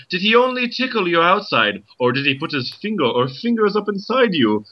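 a light put-on Irish accent, questioning. Joyce questioning Nora in a light Irish accent. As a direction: ask it with a mild Irish lilt. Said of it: "My Irish accent is going away".

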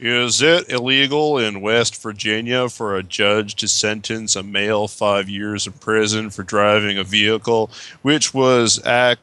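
put-on American accent, reading a question; lightly hammed American caller voice. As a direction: read it out in a mock American accent. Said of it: "do the British American voice".

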